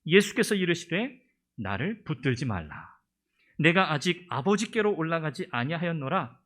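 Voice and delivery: slow, solemn and rising recitation; scripture reading. Acted. Preacher reads Jesus' words to Mary, solemn proclamation. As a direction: proclaim the verse with weight.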